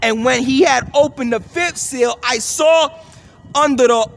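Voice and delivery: emphatic, measured Bible reading; scripture reading. Acted. Preacher reading the fifth seal verse, emphatic scripture reading. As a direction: proclaim the verse, punching the key words. Reads scripture aloud to listeners.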